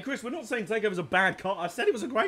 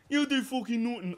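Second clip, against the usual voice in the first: higher, lightly voiced South London dad; dad impression; 6 semitones higher than usual. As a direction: snap it like a cross dad. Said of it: "Actually, my dad".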